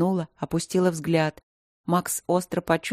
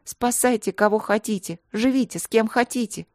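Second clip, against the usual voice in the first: angry retort; 4 semitones higher than usual. Acted.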